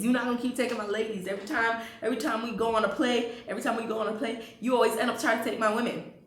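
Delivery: 친구에게 항의하는 격앙된 말투; heated protest. Retold or imitated. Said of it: "August was like".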